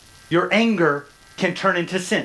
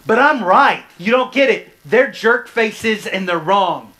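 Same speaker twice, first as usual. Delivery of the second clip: mock indignant protest; 3 semitones higher, 5 dB louder than usual. Pastor mimicking a self-righteous listener, mock indignant. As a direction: play the stubborn listener digging in. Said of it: "this one's yours".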